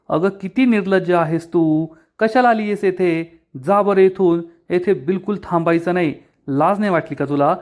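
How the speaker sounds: a touch of anger, scolding the intruder; mildly heated telling-off, shooing her away; angry. Acted. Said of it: "Shilpa चिडून म्हणते".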